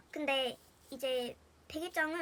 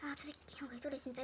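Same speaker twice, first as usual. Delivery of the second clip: muttered annoyance; 10 dB quieter than usual. Retold or imitated. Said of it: "이러고 넘어갔겠는데".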